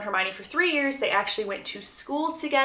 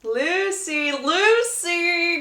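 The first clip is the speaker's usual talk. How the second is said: high, drawn-out calls of a friend's name; repeated calling; 7 semitones higher, much slower than usual. Retold or imitated. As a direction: call a zoned-out friend back, higher pitched. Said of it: "Hermione's just repeating".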